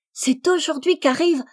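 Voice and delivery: put-on high, loud eager child voice; mischievous little girl. A narrator's reading. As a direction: blurt it out before dad. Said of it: "la petite espiègle". (petite espiègle qui parle avant son papa, voix aiguë et forte)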